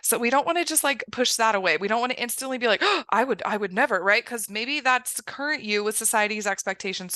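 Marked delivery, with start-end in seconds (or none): 2.8-4.0 gasping, mildly scandalised imitation; mock shock. Acting out an instant shocked reaction.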